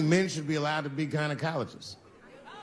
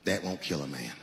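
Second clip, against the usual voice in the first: gun shop owner; 13 semitones lower, 6 dB quieter than usual. Retold or imitated. Gun seller voiced in story.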